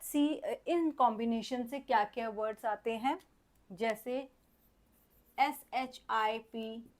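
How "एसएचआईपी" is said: letters spelled out slowly one by one; slow spelling. Shown as a demonstration. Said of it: "spelling out letters slowly". (धीरे-धीरे अक्षर बोलना)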